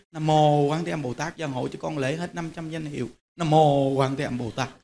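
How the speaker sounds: hushed murmur of Nam mô Quán Thế Âm Bồ Tát; silent inner prayer. Shown as a demonstration. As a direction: pray under your breath as if only to yourself. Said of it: "Trong tâm mình cứ thầm thầm thầm vậy".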